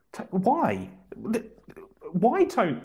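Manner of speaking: mock-desperate, begging for an answer; exasperated pleading. Host pleads with the commenter Tony, mock-exasperated.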